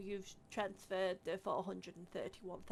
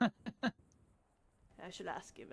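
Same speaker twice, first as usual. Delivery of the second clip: slow, grand; 4 dB louder, much slower than usual. Acted. Grand pronouncement.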